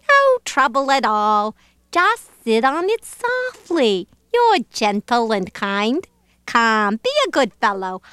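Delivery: swooping, lilting persuasion; coaxing lazy bird. Acted. Bird persuading elephant to sit, coaxing.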